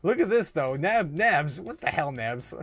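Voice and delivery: loud, high, thrilled calling out; excited. Real, not acted. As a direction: hype it up like the call just landed. Excited at correct prediction on chart.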